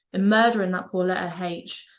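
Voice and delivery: "murdering that poor letter H" in broad Norfolk; Norfolk accent. Shown as a demonstration. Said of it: "the Norfolk dialect".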